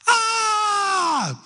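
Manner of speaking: high, mock-terrified group-style "Ah!"; piercing pretend scream of fear; frightened shout. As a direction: yelp in fake fright like kids in a play. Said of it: "they reply".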